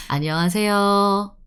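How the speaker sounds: "안녕하세요" with a light, open 요; don't round the lips fully on the end of "안녕하세요"; "안녕하세요" ending lazily, near "어"; lighter final yo. Shown as a demonstration. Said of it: "A little bit lighter".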